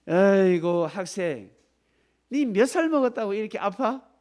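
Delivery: loud, high exasperated doctor; a scolding doctor, lightly voiced; mock rude doctor. Doctor to a sick student, mock scolding.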